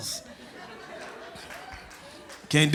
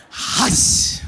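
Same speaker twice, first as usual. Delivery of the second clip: shushing; 4 semitones higher than usual. Acted. Shushing the crowd.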